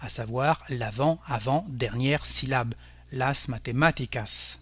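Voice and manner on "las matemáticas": "las matemáticas" said slowly, stress on "má", the third-last syllable. Shown as a demonstration. Teacher slowly modelling antepenultimate stress, "las matemáticas" stressed on "má". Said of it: "la syllabe antépénultième".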